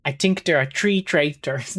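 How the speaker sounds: light mock Irish accent. Streamer imitating a Traitors contestant, mock Irish accent. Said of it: "I can't do an Irish accent".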